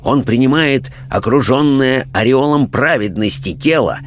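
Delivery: lightly voiced preachy parson, animated lilt; indignant clergyman. Clergyman instructing his questioners on religion, indignant. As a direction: lecture like an affronted churchman.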